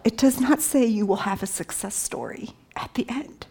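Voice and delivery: whisper. Real, not acted. Emotional point of the scripture.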